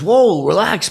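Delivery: high, loud "whoa" to calm someone; retold alarmed objection. Startled dad telling a ranting fan off, high.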